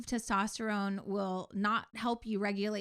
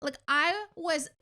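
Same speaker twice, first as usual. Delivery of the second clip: near tears; 7 semitones higher than usual. Real, not acted. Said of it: "almost in tears".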